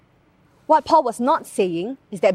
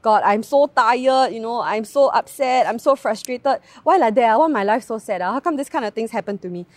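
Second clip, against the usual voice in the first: whiny rant; 3 dB louder than usual. Retold or imitated. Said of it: "rant to God".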